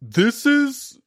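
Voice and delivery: high mock dude voice; high hyped-up bro voice; impression of men. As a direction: ape a hyped-up guy at karaoke. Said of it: "That's my impression of men".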